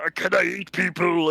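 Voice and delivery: lightly put-on monster voice; mock a movie monster's way of talking; Venom. Disappointed fan mimicking the villain's talk, in a mocking voice. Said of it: "the way Venom talks and stuff".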